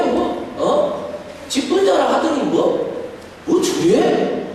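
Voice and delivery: a hint of a scornful member griping; sneering complaint. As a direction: sneer it like a grumbling churchgoer. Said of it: "이런 소리를".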